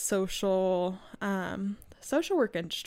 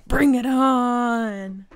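playful challenge; 3 semitones higher, 10 dB louder, much slower than usual. Acted.

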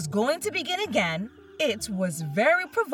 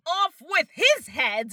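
shouting; 6 semitones higher than usual. A narrator's reading. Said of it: "went stomping about and shouting".

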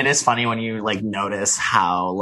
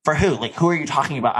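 mock curious; 3 semitones higher, faster than usual. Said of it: "genuinely curious".

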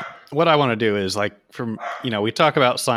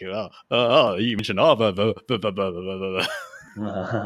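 lightly mocked nerdy know-it-all; hint of a nerd babbling on; 2 semitones lower than usual. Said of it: "say science things that come to mind in that voice".

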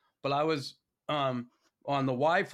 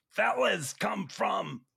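high, drawn-out Boston accent; 6 semitones higher, much slower than usual. Real, not acted. Host asks where the slang comes from, Boston accent. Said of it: "you do have a nice Boston accent".

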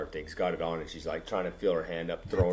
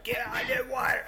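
high-pitched panicky imitation of Tasha; mock panicked Tasha. Friend mimics choking Tasha's panicked high shriek. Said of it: "And she's like".

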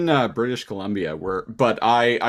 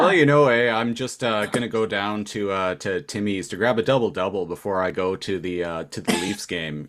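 playing a Leafs fan off to Timmy's, Canadian accent; sending up a hoser, Canadian accent; mock Eastern Canadian accent; 2 semitones lower than usual. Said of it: "the Canadian accent is, is the Eastern accent".

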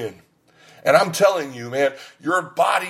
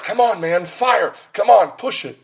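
cheering coach; 6 semitones higher, 3 dB louder than usual. Retold or imitated. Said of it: "he's like".

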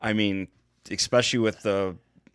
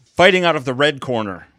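boxing ring announcer; 3 semitones higher than usual. Acted. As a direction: call the fighter into the ring. Introducing fighter like ring announcer.

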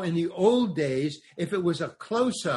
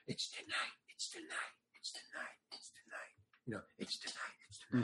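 unvoiced whisper passed along; 6 semitones lower, 18 dB quieter than usual. Prisoners pass escape word in theater, whispering. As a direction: whisper the secret down the line. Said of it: "so we can whisper".

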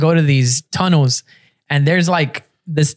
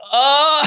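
imitated moan; 8 semitones higher than usual. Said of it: "just like".

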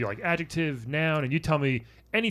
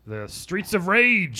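horror trailer voice; 7 semitones higher, 5 dB louder, much slower than usual. Acted. Reading game manual dramatically.

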